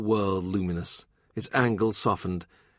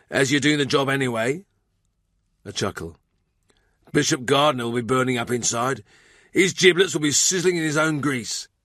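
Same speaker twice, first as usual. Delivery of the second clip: gossipy cook, higher and gleeful; Thurston the cook; 4 semitones higher, 3 dB louder than usual. Acted. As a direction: relish the bishop's discomfort, pitched up.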